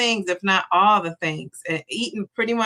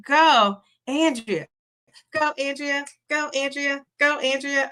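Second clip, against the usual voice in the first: cheering; 5 semitones higher than usual. Real, not acted. Cheering a viewer's weight loss.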